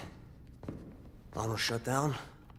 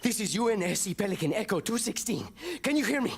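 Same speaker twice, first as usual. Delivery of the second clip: urgent radio call; 4 dB quieter, much faster than usual. Acted. Pilot makes urgent radio call.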